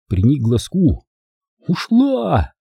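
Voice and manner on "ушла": high, drawn-out note of relief; light, relieved announcement. A narrator's reading. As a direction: let it out with mild relief. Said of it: "с облегчением сообщил он".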